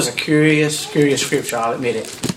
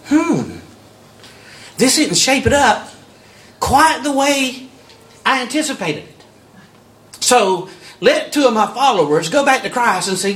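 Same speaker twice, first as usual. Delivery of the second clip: higher, slowing on quite the way, half-laughing in confusion; puzzled John the Baptist, pitched higher; 5 semitones higher than usual. Retold or imitated. Preacher voicing John in prison, baffled and higher. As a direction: voice a bewildered prophet in prison, higher. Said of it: "And he's going".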